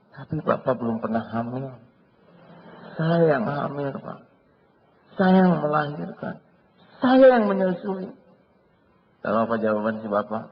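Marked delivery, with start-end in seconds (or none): 3.0-8.1 building from mildly raised to high, loud and slow; the wife hits back, rising each time; indignant wife. Acted. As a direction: stress on Saya, growing each line. Wife answering husband's boasting.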